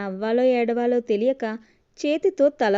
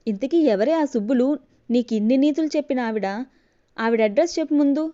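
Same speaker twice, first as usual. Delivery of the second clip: holding back anger; 2 semitones higher, 4 dB louder than usual. Acted. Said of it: "వస్తున్న కోపాన్ని ఆపుకుంటూ".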